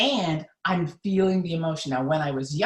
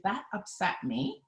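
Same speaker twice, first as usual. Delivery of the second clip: calmly naming feeling; 3 semitones higher, 3 dB quieter than usual. Shown as a demonstration. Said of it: "I might say".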